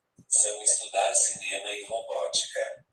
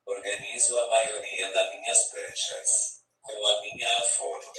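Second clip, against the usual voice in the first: robotic text-to-speech voice from a tablet app; synthesized voice. Real, not acted. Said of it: "Com essa voz sintetizada que vocês estão ouvindo".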